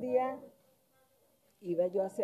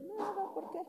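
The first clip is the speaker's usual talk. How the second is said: 1 laughing it off; 12 semitones higher, 4 dB quieter than usual. Retold or imitated. Hiding tears from miner friend.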